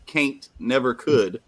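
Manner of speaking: "can't" said as caint, slow; slow "can't never could" with caint; Southern caint, slow and deliberate; caint drawl. Shown as a demonstration. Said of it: "but they spell it caint".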